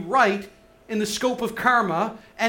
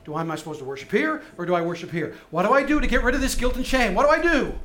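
anxious pleading questions; 3 dB louder, faster than usual. Retold or imitated. Woman's anxious questions voiced.

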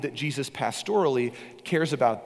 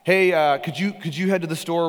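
put-on louder call to a kid in another room; yelling across the house; 4 semitones higher, 5 dB louder than usual. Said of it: "yell out to one of your kids".

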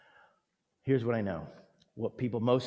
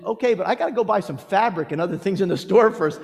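voicing Margaret; 8 semitones higher, 8 dB louder, faster than usual. Margaret's reply voiced in story.

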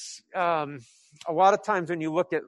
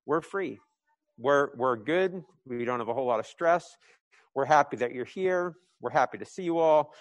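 calm confident apostles; 3 semitones lower, 3 dB quieter than usual. Retold or imitated. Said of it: "like, confidence".

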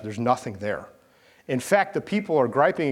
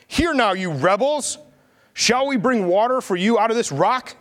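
Moses rebuking; 10 semitones higher, 5 dB louder than usual. Acted. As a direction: thunder it at the rebels like an angry prophet. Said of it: "And he said to them".

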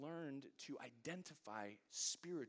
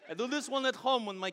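Gru voice; 10 semitones higher, 12 dB louder than usual. Retold or imitated. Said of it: "They say I sound like Gru".

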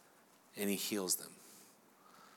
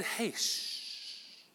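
hushed, unvoiced shushing; whisper; 15 dB quieter, slower than usual. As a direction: shush the crowd to silence. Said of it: "They said".

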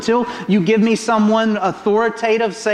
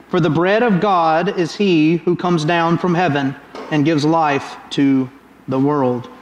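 loving and serious. Retold or imitated. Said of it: "in love and with all seriousness".

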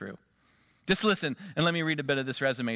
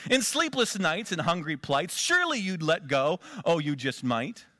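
Seuss-style rhyme. Acted. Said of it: "that canter and that feel".

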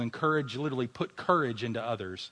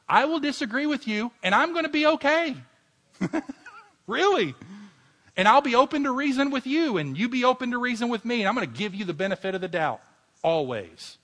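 much higher and louder, a near-shout of passion; fervent preaching; 11 semitones higher, 7 dB louder than usual. Acted. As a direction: preach it out with full fire. Repeats commitments with rising fervour.

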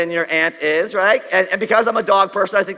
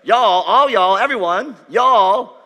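Southern Jesus; 3 semitones higher, 7 dB louder, much slower than usual. Acted. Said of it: "'cause Jesus is a Southerner".

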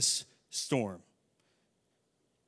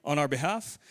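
overly polite mock request. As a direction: play the absurdly polite disciples, unbothered. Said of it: "do you think that that's what this story portrays".

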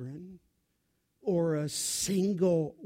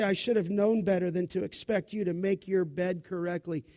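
mock scolding mother. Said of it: "for a mother to say".

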